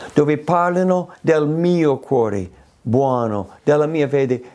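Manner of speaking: normal talking voice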